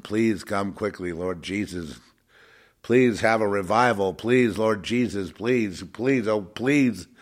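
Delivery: lightly acted revival plea; mock begging. Fake-church preacher begging Jesus for revival, mock pleading. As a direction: repeat the pleas like a begging preacher. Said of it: "they're begging and begging and they're crying".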